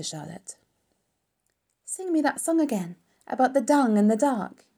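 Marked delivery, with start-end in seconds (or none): 1.8-4.6 high, pleading little pig voice; begging. Acted. Wilbur begs Charlotte for her song, high and pleading. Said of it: "he begged".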